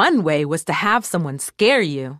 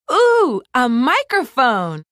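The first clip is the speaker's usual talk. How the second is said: high, delighted gasp of wonder; bright toy-lamb exclamation, rising high; excited exclaim; 5 semitones higher, 3 dB louder, slower than usual. A narrator's reading. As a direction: squeal it like a thrilled little lamb. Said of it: "she exclaimed".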